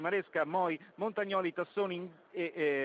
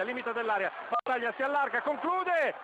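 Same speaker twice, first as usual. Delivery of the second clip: rising excitement; 4 semitones higher than usual. Real, not acted. Attack building toward a shot.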